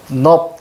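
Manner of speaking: 넙 cut off on a final ㅂ; demonstrated pronunciation. Shown as a demonstration. Teacher answering how it must be read, demonstrated pronunciation. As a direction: say 넙 with closed lips at the end. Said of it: "자 어떻게 해야 됩니까".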